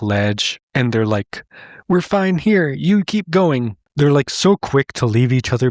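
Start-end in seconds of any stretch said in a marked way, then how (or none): 1.9-3.8 higher-pitched, lightly acted bears; breezy acted dismissal. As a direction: wave them on in a higher voice. Bears brush off being stranded.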